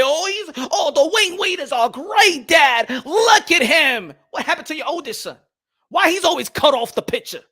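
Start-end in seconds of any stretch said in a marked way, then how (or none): 0.0-4.1 mocking laugh. Mocking the great dad image.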